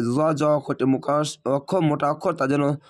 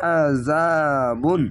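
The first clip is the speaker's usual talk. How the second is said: very slow chanted আযাবুন; slow recitation; much slower than usual. Shown as a demonstration. Teacher to students, slow chanted recitation. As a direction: hold the vowels long like a reciter. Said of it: "গলা চিপে পড়বেন".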